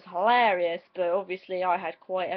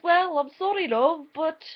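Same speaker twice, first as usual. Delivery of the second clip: put-on lilting, higher-pitched botched Scottish accent; bad Scottish accent; 5 semitones higher than usual. Bus branch lady apologising to English caller, bad Scottish accent. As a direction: attempt a Scottish helpline lady, badly. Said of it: "really terrible impression of a Scottish accent".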